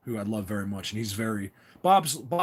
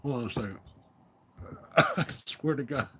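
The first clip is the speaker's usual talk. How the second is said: helpless real laughter around the words; words squeezed out between laughs; laughing; 4 dB quieter than usual. Real, not acted. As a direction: swear it while cracking up. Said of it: "understand why I'm laughing".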